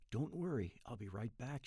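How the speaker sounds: soft, hushed promise; whisper. A narrator's reading. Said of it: "she whispers".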